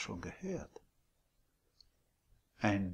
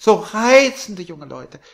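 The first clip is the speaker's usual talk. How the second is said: put-on high, much louder gushing old landlady; sweet landlady; 9 semitones higher, 19 dB louder, slower than usual. A narrator's reading. Landlady surprising Billy from behind, high and gushing. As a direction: coo it like a doting hostess.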